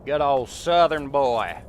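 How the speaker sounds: put-on Southern accent. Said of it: "With a southern boy accent".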